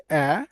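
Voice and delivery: the short vowel "অ্যা", as in man; teacher isolating the "অ্যা" sound. Shown as a demonstration. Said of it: "short sounds".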